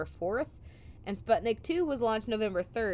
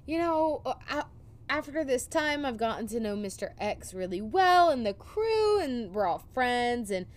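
Schmidt quote, slightly raised; 3 semitones higher than usual. Retold or imitated. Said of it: "Schmidt ends up saying".

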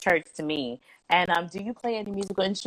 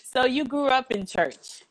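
louder, slower stage projection; 7 semitones higher, 5 dB louder, slower than usual. Shown as a demonstration. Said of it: "I'm just going to use my stage voice".

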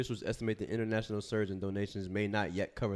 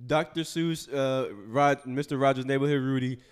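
teasing Mister Rogers; 2 semitones higher, 5 dB louder than usual. Pretend. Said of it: "Mister Rogers' Neighborhood".

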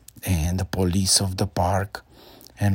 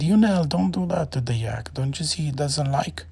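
mom scolding; 7 semitones higher than usual. A narrator's reading. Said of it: "And his mom said".

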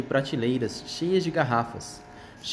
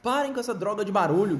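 high, shrill rat squeal; twitchy squeaking rat voice; 7 semitones higher than usual. Acted. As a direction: squeal at them like a rude rat. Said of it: "guinchou o rato".

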